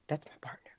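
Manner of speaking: voiceless, secretive hush; paranoid whisper. Acted. Paranoid newcomer confides to neighbors in a whisper. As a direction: whisper it like someone's listening.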